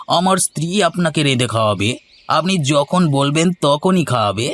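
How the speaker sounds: high, fast wheedling protest. Acted.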